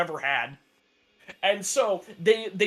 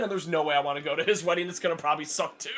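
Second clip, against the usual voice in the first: ordinary talk, nothing marked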